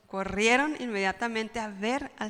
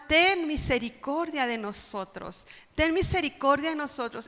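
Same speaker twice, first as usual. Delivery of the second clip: mild raised plea, pitched higher; acted cry for mercy, only lightly raised; 4 semitones higher than usual. Lepers begging Jesus for mercy, mildly crying out. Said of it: "Y ellos gritaban".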